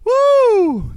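loud high whoop; excited whoop. Real, not acted. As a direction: let out a big excited whoop. Whoop after taunt.

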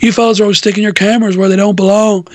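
a hint of a complaining wrestler, rattled off; Stone Cold. Recalling an old promo, mild fast wrestler impression. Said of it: "Stone Cold going".

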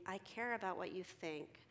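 mildly softened, sincere reassurance; genuinely caring. Acted. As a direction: say it sincerely, without pressure. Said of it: "if I'm genuinely saying".

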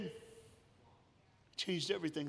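soft echo. Acted. Preacher repeating his point to the church, hushed and slow. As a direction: let it land quietly, almost to yourself. Echo after loud line.

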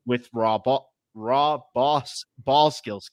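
slipping into a New England accent; Boston-style vowels on ball skills. Real, not acted. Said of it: "God damn my New England accent".

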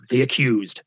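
mock dramatic show title; big production ident. Radio host imitating the feature's big production, mock dramatic announcer. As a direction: announce it like an ominous jingle, after a gasp. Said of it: "Production was big".

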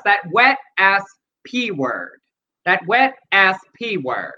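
lightly voiced schoolkid reciting a report; a hint of fourth-grade book report; fourth grader's class report. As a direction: imitate a child reading out a report, pausing stiffly. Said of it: "he sounded like that fourth grader giving a report in the class".

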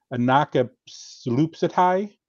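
anakapslupitai sounded out slowly, syllable by syllable; careful foreign word. Shown as a demonstration. Host attempting a Greek word, slow careful anakapslupitai. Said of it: "I'm gonna butcher this".

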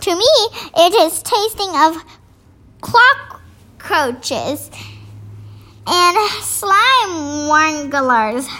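a lightly voiced friendly giant, coaxing. A narrator's reading. Giant coaxes Sophie to eat, lightly voiced. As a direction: coax her like a big kindly giant.

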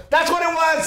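high-pitched imitation of a child's discovery; delighted little boy. Son back from peeing, imitated excited child voice. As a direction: exclaim like a kid who solved it. Son's relieved discovery acted out.

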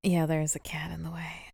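hushed whisper near the cat. Real, not acted. Cat asleep on her lap, whispering. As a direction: whisper so the cat stays calm.

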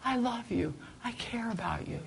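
soft, tender, fading to a whisper; donkey softly comforting Balaam, whispered at the end. Retold or imitated. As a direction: coo it like a loving pet. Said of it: "this donkey probably looked at Balaam and said".

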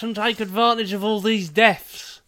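high, slow, hammed-up Australian bloke; mocking Jude Law's accent from the film, goofy Australian; silly Australian accent. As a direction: put on a goofy Aussie voice, drawn out. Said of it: "I don't know what happened with that accent".

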